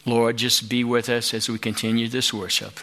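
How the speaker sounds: prayer. Acted. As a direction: pray gently for the people. Closing prayer.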